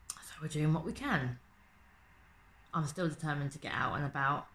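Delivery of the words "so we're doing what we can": unvoiced whisper. Real, not acted. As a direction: say it under your breath. Resigned aside.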